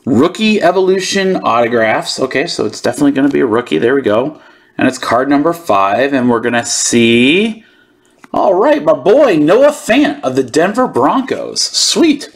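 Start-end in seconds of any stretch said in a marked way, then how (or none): 6.1-12.3 hushed then yelling excitement. Real, not acted. Reveals a hometown player's card.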